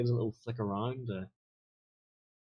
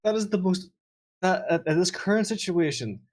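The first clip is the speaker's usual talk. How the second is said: loud, laughing outburst; cracking up at the suspicious remark; amused, laughing disbelief; 7 semitones higher, 6 dB louder than usual. Real, not acted.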